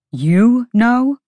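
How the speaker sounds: high, loud disbelieving question; surprised. A narrator's reading. Hunt asks Baxian in surprise, high and loud. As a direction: catch him off guard.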